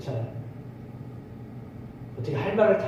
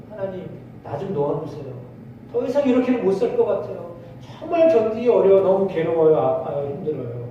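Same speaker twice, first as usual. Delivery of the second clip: Job pleading. Retold or imitated. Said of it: "그런 고백을 하고 있습니다".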